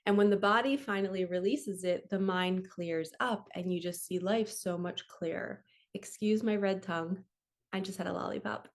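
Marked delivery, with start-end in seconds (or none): none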